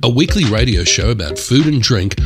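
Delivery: radio announcer read. Acted. Radio show intro read.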